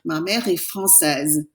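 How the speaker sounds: teacher repeating the model; slow French repeat. Shown as a demonstration. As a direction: repeat it slowly for students. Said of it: "you pronounce it".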